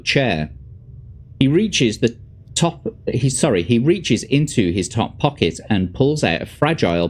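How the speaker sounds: measured gamebook narrator; story narration. A narrator's reading. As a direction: read the adventure aloud, phrase by phrase. Reads gamebook narration aloud.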